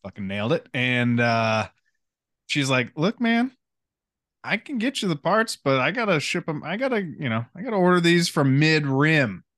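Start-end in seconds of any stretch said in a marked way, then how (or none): 3.0-9.4 shifty shopkeeper voice. Retold or imitated. Retelling shopkeeper's sales pitch.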